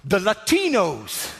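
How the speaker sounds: slow, portentous scientist line; hammed-up movie scientist reveal; dramatic reveal. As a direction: announce it like doom.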